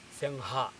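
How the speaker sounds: "Singha" with a nasal ng then h, no hard g; correct Singha. Shown as a demonstration. Teacher gives the correct nasal Singha to students. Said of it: "but it should be".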